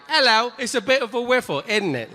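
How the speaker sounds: high-pitched caricature British lady; British lady accent. Acted. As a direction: chirp it in a mock British accent. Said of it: "A British lady who her whole life was like".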